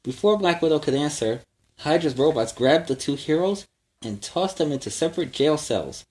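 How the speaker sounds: put-on lively read-aloud for kids; storybook narration. A narrator's reading. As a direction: tell it like a bedtime adventure. Reads story to children.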